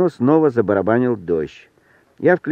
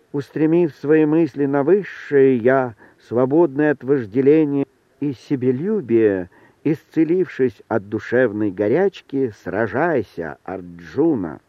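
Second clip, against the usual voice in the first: with expression; 2 semitones higher than usual. A narrator's reading. The mirror recites scripture to the startled men, solemnly. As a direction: declaim it like verses from the Gita. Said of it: "произнёс с выражением".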